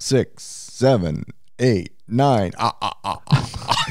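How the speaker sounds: numbers said in a vampire voice. Asked for his best vampire impression, a dad counts in the Count voice. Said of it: "give me your best vampire impersonation".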